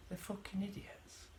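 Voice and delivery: whispered, soft, bitter insult. Real, not acted. Ranting alone about the accusing mother, now whispered. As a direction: hiss it under your breath in disgust. Muttering angrily to himself.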